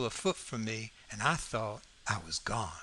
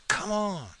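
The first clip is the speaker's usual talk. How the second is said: higher-pitched urgent prod; urging; 7 semitones higher than usual. Acted. Boy pushing frightened Jim onward, mildly urgent. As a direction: coax a scared friend to move.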